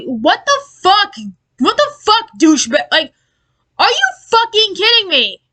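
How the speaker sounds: fed-up, disbelieving rant; exasperated outburst. Real, not acted. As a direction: demand answers in real exasperation. Rant at clickbaiting channel.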